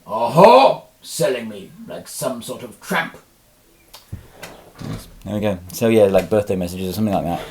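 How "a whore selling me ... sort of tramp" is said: indignant pet voice. Pretend.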